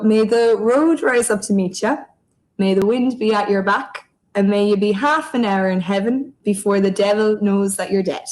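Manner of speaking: a measured, ceremonial toast, held as a blessing; raising a glass with a traditional Irish blessing. Acted. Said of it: "I'll do the old tried and tested one".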